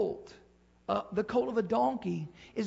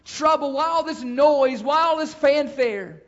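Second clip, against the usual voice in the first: puzzled crowd; 4 semitones higher, 8 dB louder than usual. Retold or imitated. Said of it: "people were asking".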